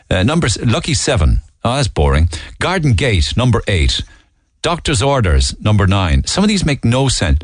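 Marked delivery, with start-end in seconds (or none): 2.6-6.2 bingo caller. Pretend. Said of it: "I wouldn't mind doing a bingo call".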